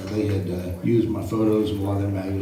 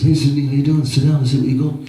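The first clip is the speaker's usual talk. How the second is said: higher, louder hearty welcome; friendly greeting; 6 semitones higher, 7 dB louder than usual. Retold or imitated. A singer welcoming Sidney at the pool, higher and louder. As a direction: greet him like an old friend. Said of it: "the singer looks up at me and says".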